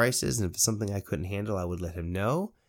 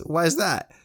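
a puzzled question pitched up high and loud; curious boss; 8 semitones higher, 5 dB louder than usual. Retold or imitated. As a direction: play the owner, surprised and curious. Owner asks why narrator scared.

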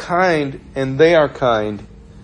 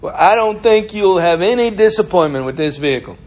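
raised, assuring sales pitch; used car salesman; 5 semitones higher, 4 dB louder than usual. Acted. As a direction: reassure the buyer in salesman style. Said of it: "used car salesmen".

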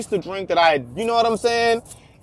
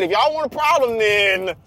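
calm tough guy; 4 semitones higher than usual. Retold or imitated. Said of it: "the way he said it".

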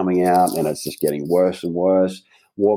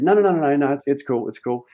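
panicked refusal; 4 semitones higher than usual. Retold or imitated. Refusing to watch tape.

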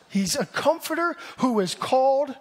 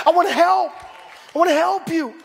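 preached shout; 6 semitones higher, 3 dB louder than usual. Acted. Holy Spirit voiced, preached.

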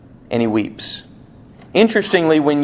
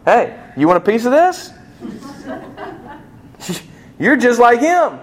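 parent scolding kids, acted; 9 semitones higher than usual. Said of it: "when one of my kids get in trouble".

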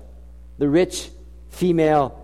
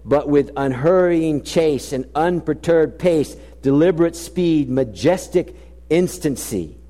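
poem recital. Shown as a demonstration. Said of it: "the poem turns a corner".

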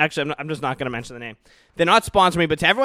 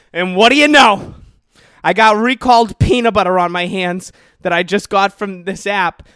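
outraged discovery; 3 semitones higher, 8 dB louder than usual. Real, not acted. Discovering the recalled peanut butter.

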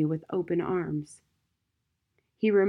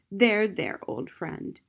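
loving; 2 semitones higher, slower than usual. Acted. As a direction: comfort an old friend, fading to a breath. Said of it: "gave the wooden foot a loving pat".

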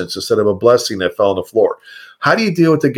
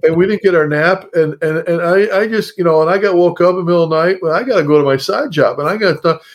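put-on higher-pitched, childish complaining; whiny voice; 4 semitones higher than usual. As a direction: whine like a kid tattling on the boss. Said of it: "this is my whiny voice".

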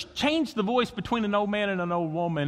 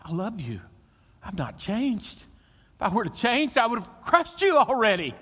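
God whispering; 4 semitones higher than usual. Acted. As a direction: start hushed, then rise into firm love. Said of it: "I hear him whisper".

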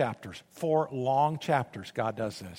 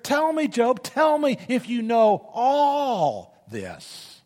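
louder, higher, building to a shout; God thundering; 6 semitones higher, 4 dB louder than usual. Acted. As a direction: hammer Job with question after question. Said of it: "Hear the sarcasm?".

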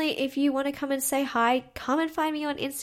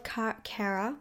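American accent; 5 dB quieter than usual. Real, not acted. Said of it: "I just said that in an American accent".

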